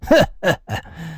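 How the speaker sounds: short cold sneering laugh; cold scornful laugh. Acted. 被告在公堂上对着大人冷冷一笑. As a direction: scoff at the charge with a cold laugh. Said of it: "一声冷笑".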